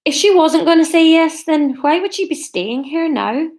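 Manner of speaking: put-on wandering Scottish-Irish accent; Scottish accent turned Irish. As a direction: aim at Scottish, slide into Irish. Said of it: "That was Irish".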